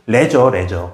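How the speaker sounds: "leisure" said wrongly as 레저, with an eh vowel; mispronounced leisure. Shown as a demonstration. Teacher showing students the wrong reading of leisure, mispronounced as 레저. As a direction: say "leisure" as 레저, short eh in front. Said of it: "발음이 레저가 아니고".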